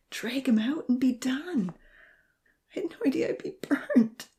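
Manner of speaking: dark murmur. A narrator's reading. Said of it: "Darkly, he murmured".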